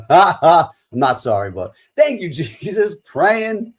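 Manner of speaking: high, loud laughing thanks. Real, not acted. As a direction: laugh through the praise.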